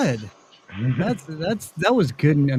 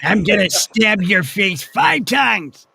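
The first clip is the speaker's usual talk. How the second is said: slow menacing Moe impression; mock Moe prank-call threat; imitating Moe; 3 semitones higher, slower than usual. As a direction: threaten slowly, leaning on "five". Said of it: "oh my God".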